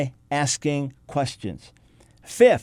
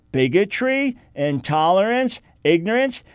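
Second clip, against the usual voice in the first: usual speaking voice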